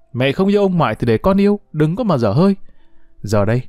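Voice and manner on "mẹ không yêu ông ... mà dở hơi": higher, fast, snapping back at his mother; a boy yelling back, cheeks puffed; shouting at mother. Acted. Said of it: "Phùng má trợn mắt quát lại mẹ". (quát lại mẹ, giọng cao và nhanh)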